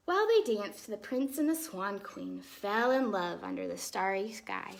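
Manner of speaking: put-on lively, expressive read-aloud for children; storybook reading. A narrator's reading. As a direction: tell the tale like a bedtime story.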